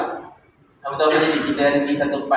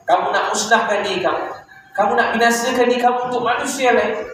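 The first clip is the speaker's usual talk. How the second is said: higher-pitched, earnest reproof; pleading reprimand in a raised pitch; reproving; 4 semitones higher than usual. Retold or imitated. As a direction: retell a divine rebuke with rising urgency. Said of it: "Allah tegur".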